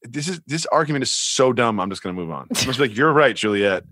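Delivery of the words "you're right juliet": mildly condescending concession. Acted. Conceding the Australia argument to co-host, condescending. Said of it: "In the most condescending way".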